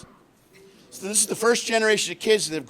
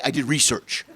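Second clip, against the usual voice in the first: mocking smug tone; 5 semitones lower than usual. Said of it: "I hate people that say".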